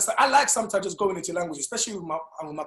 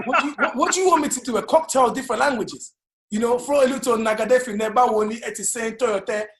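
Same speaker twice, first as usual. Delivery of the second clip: loud, higher-pitched comic protest; mock exasperation; 3 semitones higher, 5 dB louder than usual. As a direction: throw it back, playfully exasperated. Acted exasperated comeback to the question.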